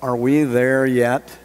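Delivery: slow, drawn-out tired question; weary whine. Shown as a demonstration. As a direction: drag it out like a kid stuck in the back seat. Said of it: "it'll be the sense of".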